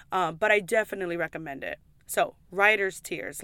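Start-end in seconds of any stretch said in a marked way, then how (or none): 2.1-3.4 Writer's Tears said slowly, each word spelled out; name Writer's Tears slowly so viewers catch it; slow and careful. Shown as a demonstration. Explaining the whiskey name to viewers, slow and careful. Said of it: "like, write, like, when you write".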